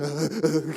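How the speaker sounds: imitated possessed groan; mock demon-possessed growling; possessed noises. Someone possessed in the crowd, mock possessed noises. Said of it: "ada yang kerasukan".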